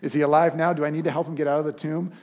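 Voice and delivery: overjoyed reaction. Pretend. Pastor imagining reacting to his brother rising, excited. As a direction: gush like the best news ever. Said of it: "I would immediately go".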